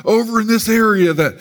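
high, far-carrying preacher's appeal; imitated pastor. Pastor singling out visitors in the seats, imitated altar call. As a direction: do a pastor urging someone in the crowd forward. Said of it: "usually that pastor would pick out".

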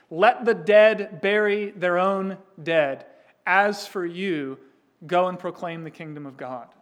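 stern Jesus. Acted. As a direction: deliver the blunt command with weight. Voicing Jesus' stern reply.

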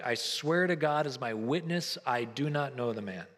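earnest sworn denial, weighed out; a grave vow before witnesses; solemn oath. Retold or imitated. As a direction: swear it like your life depends on it. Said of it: "he denies it with an oath".

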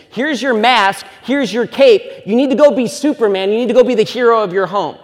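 mild mock superhero send-off; mock hero pep talk. Church sending men off as heroes, mildly mock-rousing. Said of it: "what we're telling our men is".

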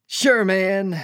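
high, loud easy agreement; put-on upbeat pal voice; cheery reply. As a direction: cover up with a breezy answer. Acted cheery reply to friend.

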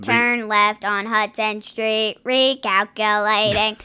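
slow, flat robot GPS voice. Retold or imitated. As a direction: speak like a machine giving directions.

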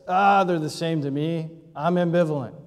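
offhand, can't-be-bothered tone; mild shrugging indifference; casual shrug. Shown as a demonstration. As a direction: toss it off like lunch doesn't matter. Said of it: "And the person says".

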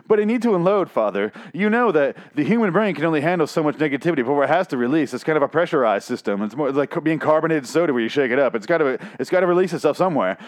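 mock a teen lecturing his father; teenage son. Son lectures his father about venting, mock teenage voice. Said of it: "Your fourteen-year-old's fucked up".

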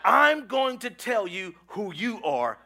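loud, emphatic preacher's declaration; big, drawn-out pulpit proclamation; from the chest. Shown as a demonstration. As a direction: proclaim it slowly with full chest force. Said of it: "say it with your chest".

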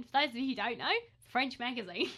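exaggerated Aussie imitation with lilting line ends; mock Australian accent. Shown as a demonstration. Co-host replaying own odd-sounding line, mock Australian accent. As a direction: repeat it in a teasing Australian twang. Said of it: "taking the mickey out of the Australian accent".

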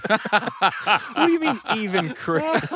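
high, slow, drawn-out indignant squeal; mock outrage. Real, not acted. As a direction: play it scandalized and stretched out. Mock-offended comeback about Chris.

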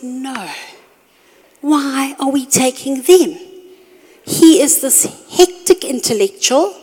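wife protesting to her husband, mock whiny. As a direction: lightly act out her own dismay.

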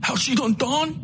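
ugly, self-righteous rant; hateful outlaw. Acted. Coakley presses Miskell.

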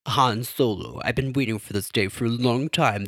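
hint of a brooding dark lord; mild Kylo Ren impression. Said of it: "This is my Kylo Ren voice".

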